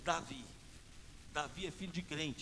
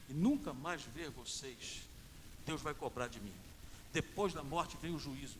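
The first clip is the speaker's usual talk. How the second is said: solemn warning; 4 semitones lower than usual. Retold or imitated. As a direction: soften and lower it, weighing each phrase. Speaking gravely to the gang members.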